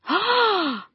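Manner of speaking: sharp high mock gasp of the moms; imitated shocked gasp. Retelling the moms' reaction with a mock gasp. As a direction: gasp like the judging moms did. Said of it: "and here was the response".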